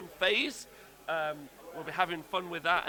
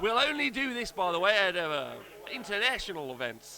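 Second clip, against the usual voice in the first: playful put-on Australian accent; mock Australian accent; 4 semitones higher than usual. Explaining the accents to viewers, mock Australian accent. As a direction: announce it in jokey Australian. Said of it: "your best Australian accent".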